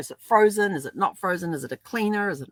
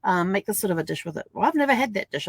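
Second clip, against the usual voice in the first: higher playful squabble voices; mock grocery bickering; 7 semitones higher, faster than usual. Couple bicker playfully over a grocery item, higher. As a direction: replay a silly little argument, lightly. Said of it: "having the silly little arguments of".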